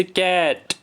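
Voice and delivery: "कैट" in one drawn-out beat; one unbroken syllable. Shown as a demonstration. Teacher contrasting a word without a break, one unbroken syllable. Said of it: "इसमें sound break नहीं होती है".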